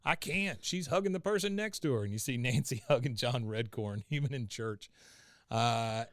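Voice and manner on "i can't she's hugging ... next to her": Dale voice. Retold or imitated. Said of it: "he says".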